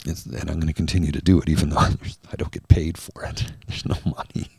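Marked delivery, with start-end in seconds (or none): 1.8-4.5 real laughter breaking through the words; laughing. Real, not acted. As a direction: chuckle through it, trailing into breathy laughter. Laughs at not being paid.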